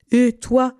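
high-pitched bird calling down; little bird calling out. A narrator's reading. Little bird calling to the duck, high and piping. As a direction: pipe up high, like a small bird. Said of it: "lui cria le petit oiseau".

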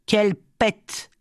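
put-on high, slow, odd little cry of a simple boy; lightly voiced simpleton marvelling; simple boy's exclamation. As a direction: draw it out like a dim village lad.

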